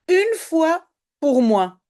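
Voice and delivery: typically Belgian une fois, said slowly. Shown as a demonstration. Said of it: "les Français, ils vont rire".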